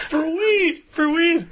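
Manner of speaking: high, laughing repeat; laughing disbelief. Real, not acted. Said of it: "laughing at it".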